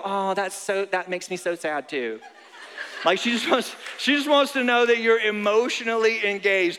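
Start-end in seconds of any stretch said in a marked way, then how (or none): 0.0-2.2 mock sympathy. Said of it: "listen and go".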